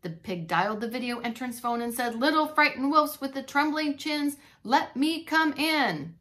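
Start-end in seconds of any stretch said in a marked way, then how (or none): 2.1-6.2 menacing pig at the door; big bad pig. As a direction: coax them, slow and louder.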